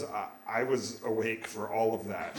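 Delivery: low, softly spoken admission; subdued mother. Retold or imitated. Mother speaking up from the operating table, subdued. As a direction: say it low and small.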